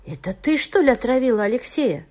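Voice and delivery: ordinary delivery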